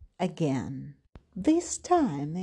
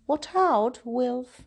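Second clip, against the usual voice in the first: mother calling out a warning, higher; mom calling; 6 semitones higher, 4 dB louder than usual. A narrator's reading. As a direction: warn him like a caring mom. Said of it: "his mom said".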